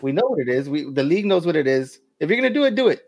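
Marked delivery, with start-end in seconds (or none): 2.2-3.0 emphatic. Real, not acted. Arguing about suspension.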